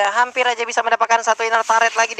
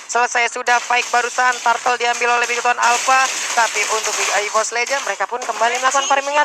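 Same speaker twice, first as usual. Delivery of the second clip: esports caster. Real, not acted. Live esports play-by-play.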